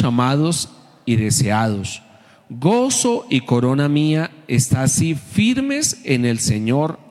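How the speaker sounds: measured reading aloud from the Bible; deliberate reading with pauses between phrases; scripture reading. Real, not acted. Reads scripture aloud to congregation.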